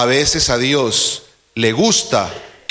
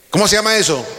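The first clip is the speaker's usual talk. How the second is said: higher and a bit louder, urging an answer; louder prompt; 4 semitones higher, much faster than usual. Shown as a demonstration. Preacher urges congregation to answer, louder higher prompt. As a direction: push the question up to rouse them. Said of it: "Dígalo fuerte".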